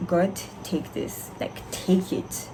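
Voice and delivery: soft slow whispered plea; whispered prayer. Retold or imitated. Student praying to God, slow whispered plea. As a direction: breathe it out as a prayer.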